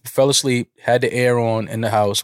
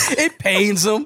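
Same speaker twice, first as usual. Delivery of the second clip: high teasing voice, gloating; mock boasting tease; 12 semitones higher than usual. Teasing cohost about the clothes he paid for, high gloating tone. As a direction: rub it in that you paid.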